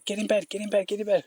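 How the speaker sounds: the dog herding the ducks, mock commands. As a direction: speak as the bossy sheepdog. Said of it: "he was barking to".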